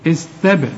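"استبر" with a released, bouncing b; echoed b. Shown as a demonstration. Teacher shows qalqala on the b, bouncing release. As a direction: bounce the b in "استبر" with a tiny echo. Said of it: "الباء هنا هقلقلها".

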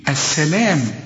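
السلام with a held, fronted LEE-M; long light alif. Shown as a demonstration. Teacher shows alif after lam, lengthened السلام. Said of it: "في بعد اللام ألف".

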